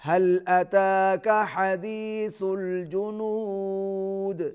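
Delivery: slow, measured tajweed chant; teacher modelling a recitation; Quran recitation. Shown as a demonstration. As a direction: recite it slowly for the pupil to copy. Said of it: "یہاں پر قلقلہ ہوگا".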